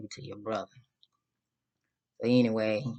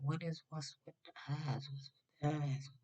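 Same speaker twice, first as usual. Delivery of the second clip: puzzled whisper-aside; 5 semitones higher, 10 dB quieter than usual. Retold or imitated. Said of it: "I'm like".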